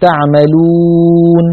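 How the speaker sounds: تعملون slow, the waw fully rounded u. Shown as a demonstration. Teacher modelling the correct rounded waw. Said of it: "بضم الشفتين كما ينبغي".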